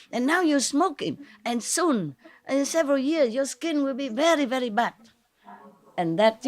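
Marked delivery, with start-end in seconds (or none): 0.1-4.9 raised pitch, gently cautioning; sweet warning. Retold or imitated. Warning a smoking stranger about her skin, sweetly coaxing. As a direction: warn sweetly, as retold to a stranger. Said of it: "I'm very sweet".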